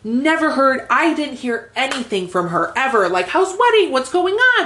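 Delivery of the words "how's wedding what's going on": high-pitched, imitated casual inquiry; mock friendly check-in. Bride mimicking the check-in she never got, mock friendly. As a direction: toss off a chirpy, much higher mock check-in.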